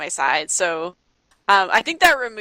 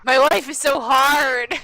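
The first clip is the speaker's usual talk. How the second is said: slow, higher melodramatic whine; mock angst; 5 semitones higher, slower than usual. The sulking teen complains about her life, slow, mock-tragic.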